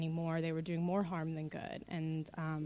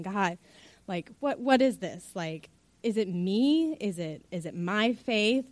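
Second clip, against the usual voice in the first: retold crying; 2 semitones higher, 6 dB louder than usual. Chaplain crying in the car to God, anguished and raised. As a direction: pour out the doubt, half sobbing. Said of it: "I just start crying".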